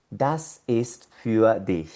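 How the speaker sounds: "Das ist für dich" slowly, each word clear; slow pronunciation model. Shown as a demonstration. Teacher repeating the expression for learners, slow and clear. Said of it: "toda la expresión se lee".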